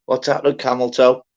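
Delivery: imagining bellowing a hello; pretend shout. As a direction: yell the name out like you're calling across the room. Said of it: "me just shouting".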